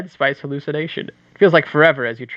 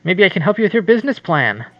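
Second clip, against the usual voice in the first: slightly higher, eager charm; eager smooth suitor; 6 semitones higher, 3 dB louder than usual. Acted. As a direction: lean in with a smooth offer. Voicing suitor.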